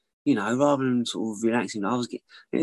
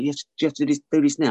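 lightly voiced wife, higher and insistent; imitating exasperated wife; 5 semitones higher, 3 dB louder, faster than usual. Wife pleading with drinking husband, insistent. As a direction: press the point as the wife, pitched up. Wife quoted arguing with him.

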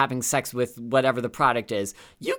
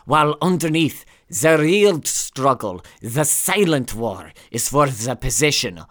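bad German accent slipping Scottish, slow and louder; weighty, slow mock German accent; 3 dB louder than usual. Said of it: "your German accent became a bit Scottish there".

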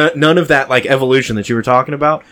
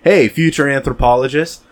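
drunk, mocking; 4 semitones higher, slower than usual. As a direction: boast to future scholars. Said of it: "let's talk directly to the future".

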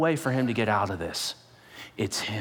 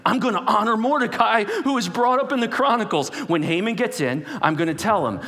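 king's plan; 8 semitones higher, 4 dB louder than usual. Acted. King voiced in retold story.

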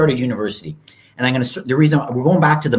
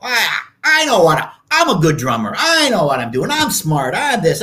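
arrogant younger self; 2 semitones higher than usual. Retold or imitated. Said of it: "I thought".

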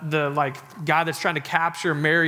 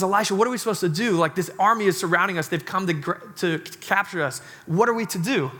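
panicked servant; 2 semitones higher than usual. Acted. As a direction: rush it out, frightened by the army. Panicked servant surrounded by army.

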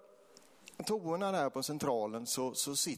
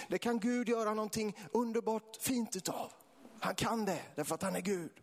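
passionate preaching; 8 semitones higher than usual. Real, not acted. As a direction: preach it with rising fervour. Preaches at full force. (eldig, högstämd väckelsepredikan)

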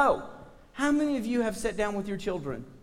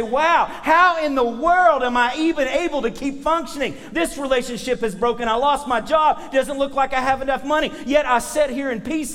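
amazed believer; 5 semitones higher, 4 dB louder than usual. Acted. Believer marvelling at own peace.

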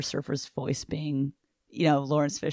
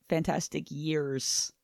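Stan Lee, corrected; 2 semitones lower, 6 dB quieter, much slower than usual. Shown as a demonstration. Co-host corrects the New York accent, slower R-heavy Stan Lee. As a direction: draw out "fantastic years", hitting the R. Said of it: "would have said it more like".

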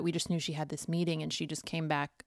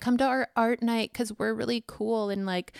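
recruiting pitch voice; 5 semitones higher than usual. Retold or imitated. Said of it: "it would only be in the context of, like".

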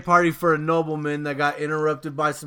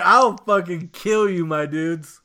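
mock threat; 3 semitones higher, 4 dB louder than usual. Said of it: "I'm like".

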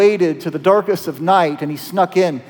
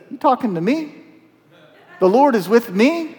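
higher, disbelieving questions; incredulous Gideon; 5 semitones higher than usual. Acted. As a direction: ask as if the stranger must be joking. Gideon doubts the stranger.

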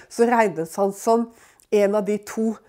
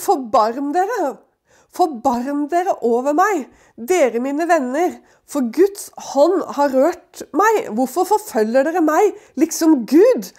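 slow, higher, pleading scripture reading; Job's plea; 4 semitones higher, slower than usual. Acted. Preacher voicing Job begging his friends, slow and pleading. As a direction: beg the friends for mercy, drawn out.

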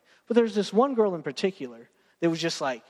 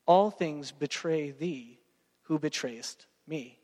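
slow, fading solemn echo; solemn repetition; 4 semitones lower, 4 dB quieter, slower than usual. Shown as a demonstration. Preacher repeating the line to congregation, slow and solemn. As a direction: repeat it slowly, letting it sink. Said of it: "repeats the poem line".

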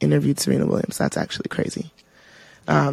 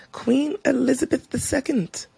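higher-pitched mock British accent; 7 semitones higher, 4 dB quieter than usual. Podcaster announcing the Queen's death, in a mock British accent. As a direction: put on a playful British accent. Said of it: "wanted to talk in a British accent".

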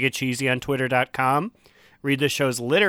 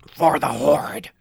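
whispered, slow and breathy; sick voice whisper; slower than usual. Pretend. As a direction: rasp it out through a bad cold. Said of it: "I'm gonna try and do this in my sick voice".

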